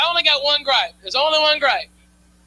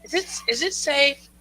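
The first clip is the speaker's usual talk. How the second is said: worried mom. Retold or imitated. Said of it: "She goes".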